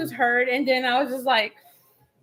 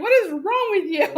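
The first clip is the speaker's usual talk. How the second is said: higher mock exasperation, half laughing; annoyed; 5 semitones higher than usual. Wife scolds laughing husband, retold annoyance. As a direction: re-enact indignation while amused at it now. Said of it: "you know how annoying that is".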